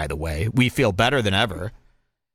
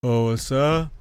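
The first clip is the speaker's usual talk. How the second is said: mock bartender. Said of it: "he's going like this".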